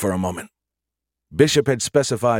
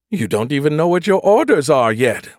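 higher, prim ship computer voice; 6 semitones higher, 5 dB louder than usual. A narrator's reading. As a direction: voice the ship's computer lady. Nagatha chiding.

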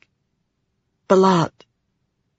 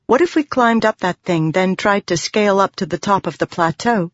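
lightly voiced heroine, higher at the start; heroine proposing a plan; 4 semitones higher than usual. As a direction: float a hopeful suggestion in her voice. Voices Shallan's suggestion.

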